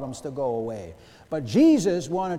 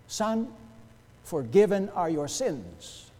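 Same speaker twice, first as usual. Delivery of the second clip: "forgiven" stressed at the front, slow delivery; emphasis on forgiven; slower than usual. Retold or imitated. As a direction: lean on "forgiven", then slowly finish the phrase. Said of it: "He emphasized that".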